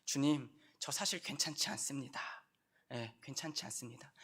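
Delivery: hushed prayer of confession; quiet confession. Acted. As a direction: confess it softly and humbly. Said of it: "우리가 할 수 있는 고백은".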